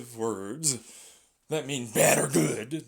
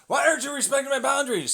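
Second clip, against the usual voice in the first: mock whiny protest; 8 semitones higher, 4 dB louder, faster than usual. Victim protests.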